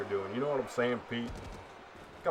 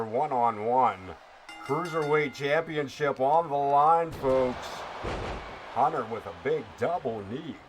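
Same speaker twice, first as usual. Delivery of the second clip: hammed-up wrestling play-by-play announcer; radio voice. Streamer calls the match for viewer Ken in radio voice. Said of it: "We're gonna keep going with that radio voice for you".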